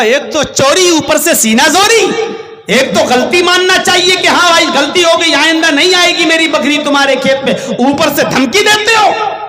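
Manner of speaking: rising outrage at the neighbour's cheek; indignant retort. Retold or imitated.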